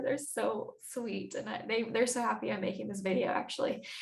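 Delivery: fighting back happy tears; teary. Real, not acted. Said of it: "sorry, I'm getting teary-eyed".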